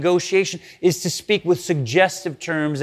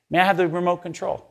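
softly sweetened polite request, asking a favour; butter them up, ask so nicely; really nicely; 4 dB quieter than usual. Retold or imitated. Couch-mate sweetly asking for the remote, softer and overly polite. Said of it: "But they say it really nicely".

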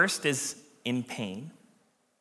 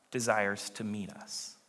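whispered, soft and low; hushed tender; 5 semitones lower, 12 dB quieter than usual. Real, not acted. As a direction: hush it like a promise. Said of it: "closing tender point".

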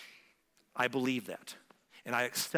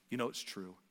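God's gentle prompting; 4 semitones lower, 6 dB quieter than usual. Acted. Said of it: "knocking on your door this morning and saying".

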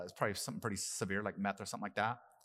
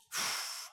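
shaky sigh. Real, not acted. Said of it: "I'm gonna try not to cry".

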